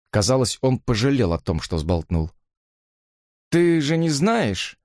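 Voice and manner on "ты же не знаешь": slow, grave change of tone; different tone. A narrator's reading. Jimmy turns grave about Susan, slow and high. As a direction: turn serious all at once. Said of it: "произнёс он другим тоном".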